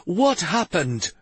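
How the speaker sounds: slow, firm demand. Acted. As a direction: insist on an answer. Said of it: "Stavin who demanded".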